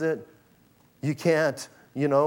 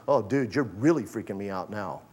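a shaken man admitting he's spooked; nervous Nicodemus; 3 semitones lower than usual. Acted. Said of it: "He goes".

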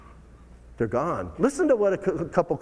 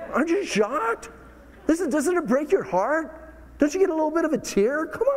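much higher, pleading with the crowd; pleading disbelief; 11 semitones higher than usual. Real, not acted. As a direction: beg them to feel the heartbreak. Pleading with congregation, heartbroken.

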